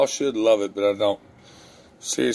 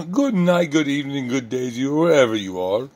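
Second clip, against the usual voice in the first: put-on much higher, chirpy Canadian accent sign-off; Thumper's Canadian accent; 4 semitones higher than usual. Signing off to viewers, playful Canadian accent. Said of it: "I give Thumper a Canadian accent".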